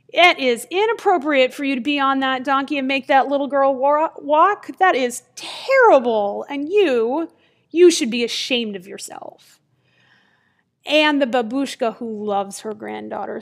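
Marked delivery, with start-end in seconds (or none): 0.1-9.6 mock-scolding passersby, indignant; acted public shaming, leaning on the key words. Passersby shame an old woman on a donkey, mock-indignant scolding. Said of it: "who shame this old woman by saying".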